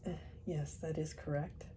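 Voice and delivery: mild careful enunciation; spelling out carefully. Acted. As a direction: lay each word down deliberately. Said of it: "spelling the words out carefully".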